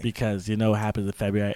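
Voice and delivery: ordinary talk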